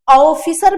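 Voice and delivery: ऑफिसर begun on a drawn 'au', 'AU-fee-sar'; wrong au vowel. Shown as a demonstration. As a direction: widen the start of ऑफिसर to au. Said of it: "भी नहीं होता".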